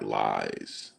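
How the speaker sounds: low, drawn-out dismissive lies; diva brush-off. Retold or imitated. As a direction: imitate him waving it off like a diva. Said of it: "That's where he was like".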